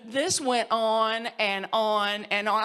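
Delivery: slow, tearful, half laughing; real tearful laugh; laughing through tears. Real, not acted. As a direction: let the tears break the words. Overcome retelling the emotional hug.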